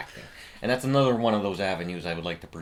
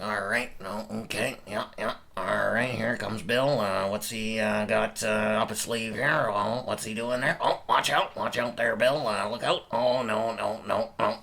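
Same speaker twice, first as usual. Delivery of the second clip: lightly voiced muttering sketch narrator; Red Green. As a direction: imitate a folksy narrator rambling over slapstick footage. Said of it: "Red would be narrating".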